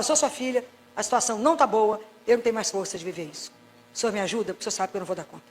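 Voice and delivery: quietly pleading prayer; weary plea. Acted. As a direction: let the voice sink as you run out of strength. Voicing tired complaint to God.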